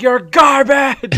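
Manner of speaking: high, drawn-out yell; screaming. Retold or imitated. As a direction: imitate an enraged gamer screaming, stretched out long. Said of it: "Like, just screaming".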